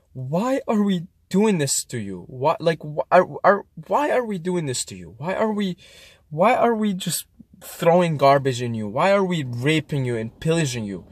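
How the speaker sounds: tearful plea. Retold or imitated. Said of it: "was crying in deep tears, and I was saying".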